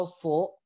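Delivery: "so" heavy and drawn out; thick sod. Shown as a demonstration. Teacher demonstrates sod, thick "so". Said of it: "itu dia tebal".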